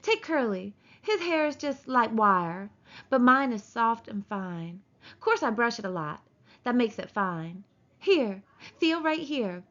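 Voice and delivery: lightly voiced vain young woman, slow; a hint of a preening ranch wife; Curly's wife. Curly's wife boasting of her hair.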